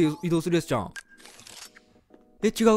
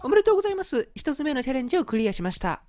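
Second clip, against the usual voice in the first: announcer voice; 7 semitones higher than usual. Acted. Reading game announcement aloud.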